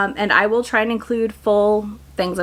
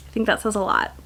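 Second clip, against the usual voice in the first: softer knowing echo of the line; quieter pointed repeat; 6 dB quieter, faster than usual. Shown as a demonstration. Creator repeats her point to viewers, quieter and knowing. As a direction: drop the volume on the repeat, letting it sink in.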